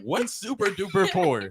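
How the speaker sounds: slow, drawn-out super duper poor; slow teasing repeat. Real, not acted. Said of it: "That's a great question".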